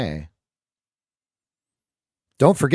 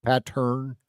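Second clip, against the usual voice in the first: Southern accent; 6 dB quieter, slower than usual. Shown as a demonstration. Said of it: "if you're from the South".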